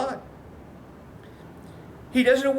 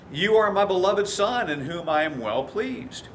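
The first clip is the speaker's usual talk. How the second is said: with love; 2 semitones lower than usual. Retold or imitated. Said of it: "He says it with love".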